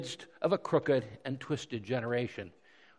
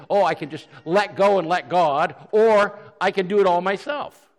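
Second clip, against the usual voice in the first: loud, higher mock exclamation; mock excuse; 5 semitones higher, 9 dB louder than usual. Preacher voices a mistaken believer to the congregation, loud. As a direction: toss off the wrong idea, loudly. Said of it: "we must not think that".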